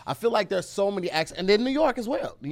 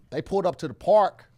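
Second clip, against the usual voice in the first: L.A. accent with capital R in park. Shown as a demonstration. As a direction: make the R in "park" stick out, L.A. style. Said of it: "No, no, no, that's L A".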